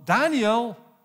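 a king calling "Daniel!" in hope. Retold or imitated. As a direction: shout the name "Daniel!" into the pit. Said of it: "Darius begon te roepen van".

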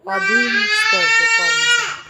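high, loud, slow drawn-out jeer; sneering, sung-out taunt; mocking taunt. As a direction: stretch each word out to mock her. Tania taunting Indu.

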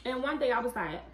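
talking while chewing; muffled chewing speech; mouth full. Real, not acted. Seen 1: bites and chews crab piece from 4s; mouth full while talking.

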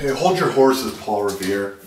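loud, teasing call. Acted. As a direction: shout him down, mocking. Calling out loudly.

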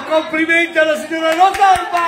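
bingo caller. Real, not acted. Announcing the winner.

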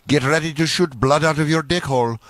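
usual speaking voice

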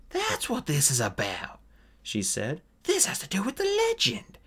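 put-on pleading with her old friend, passionately; Scatty, fierce and insistent. Scatty realizing the truth.

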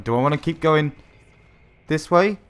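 mock-nervous hesitation about going on. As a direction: ask it uneasily, lifting the last words. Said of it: "He said nervously".

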